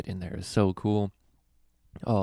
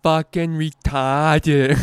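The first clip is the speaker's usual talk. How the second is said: higher, louder, very slow deadpan impression; impression of disabled comic; 8 semitones higher, 9 dB louder, much slower than usual. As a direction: drag every word out slowly, landing the punchline. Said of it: "I'm gonna do his impression again".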